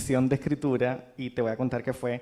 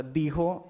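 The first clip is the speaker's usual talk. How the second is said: "dijo" with the accent on its first syllable; stress on first syllable. Shown as a demonstration. Writer showing the word's music, "dijo" stressed on first syllable. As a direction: say "dijo" as two beats, leaning on the first. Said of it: "el acento está en la primera".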